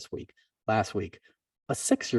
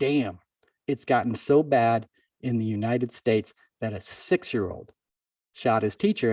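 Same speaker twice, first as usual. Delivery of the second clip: plain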